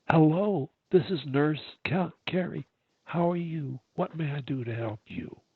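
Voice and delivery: slightly lifted, smiling helpful greeting; smiling phone greeting. Shown as a demonstration. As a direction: answer the phone with a smile. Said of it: "fifth thing you do is smile".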